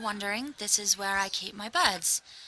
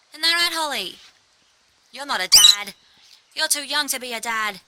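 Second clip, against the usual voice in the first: pet talk; 6 dB louder than usual. Real, not acted. Talking to her birds.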